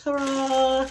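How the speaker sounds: bright showy reveal call. Real, not acted. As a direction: present it like a magician. Unveiling the food.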